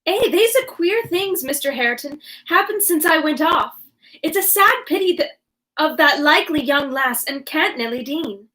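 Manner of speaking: a country Yorkshire servant gossiping; rustic Yorkshire accent. Acted. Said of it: "I'm worried I'm doing some sort of accent".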